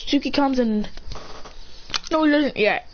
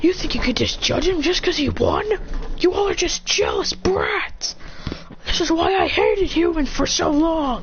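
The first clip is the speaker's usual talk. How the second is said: mock beast anger; 6 semitones higher than usual. Tailed beasts defending the boy who won, acted anger. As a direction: act out indignant telling-off. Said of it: "Tailbeasts are pissed".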